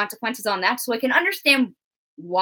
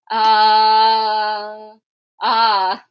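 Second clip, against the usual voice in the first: mock crying; 4 dB louder, much slower than usual. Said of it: "I was like".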